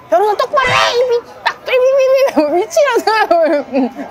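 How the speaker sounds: high-pitched, stammering imitation of a furious opponent; hammed-up high-pitched tantrum; mock angry outburst. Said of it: "막 화를 내더니 갑자기 이러는 거야".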